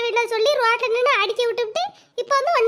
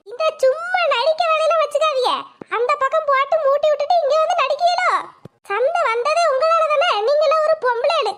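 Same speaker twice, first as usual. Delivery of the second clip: angry accusation; 3 semitones higher than usual. Acted. Wife accuses neighbour women of stirring the fight, angrily. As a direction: hurl the blame at them, raised.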